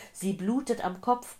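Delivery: loud, high-pitched alarm; urgent, agitated cry. A narrator's reading. Old man reporting an injured woman, loud and urgent. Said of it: "keuchte der Mann".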